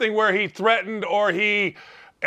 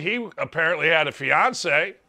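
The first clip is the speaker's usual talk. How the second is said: ordinary talk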